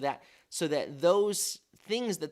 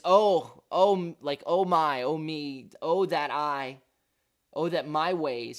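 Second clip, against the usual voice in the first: exclaimed interjection; 3 semitones higher, 7 dB louder than usual. Acted. Teacher voicing the psalmist's interjection, loud exclamation. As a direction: burst out on each "oh" as in a heartfelt plea. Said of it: "uh, interjection".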